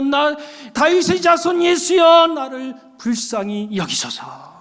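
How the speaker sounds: a beggar begging, calling out then sinking into a plea; crying out. Retold or imitated. Preacher voicing blind Bartimaeus calling to Jesus, slow pleading cry. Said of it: "바디메오가 소리를 지르잖아요".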